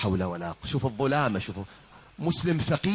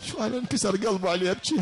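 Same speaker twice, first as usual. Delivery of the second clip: put-on girl's voice; 9 semitones higher, faster than usual. Girl's line after a laugh.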